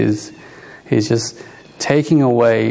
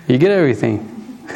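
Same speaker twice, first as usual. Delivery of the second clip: amused, laughing lightly through the words; chuckling. Real, not acted. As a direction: say it between real chuckles. Chuckling at his own paradox.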